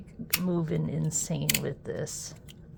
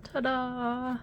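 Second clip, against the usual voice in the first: ta-da; 7 semitones higher than usual. Real, not acted. Reveal while unboxing.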